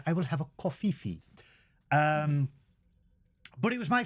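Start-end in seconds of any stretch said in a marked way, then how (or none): 0.1-1.2 quick, put-on American accent ordering coffee. Ordering coffee at Costa in a put-on American accent. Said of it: "talking like an American".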